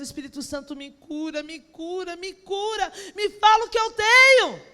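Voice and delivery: retold desperate prayer, rising to a burst; escalating plea. Retold night of crying prayer.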